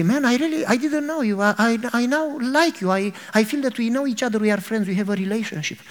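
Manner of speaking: touched friend. Acted. Man moved after long talk.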